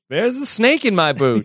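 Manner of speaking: high talking-toy catchphrase; pull-string toy voice. Retold or imitated. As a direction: voice it like a pull-string cowboy doll. Riffing on the action figure voice.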